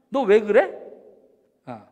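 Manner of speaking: loud challenge of a friend's motives; acted perfectionist demanding an explanation; interrogating suspiciously. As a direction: press them with pointed questions. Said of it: "이런 식으로 따져 묻는".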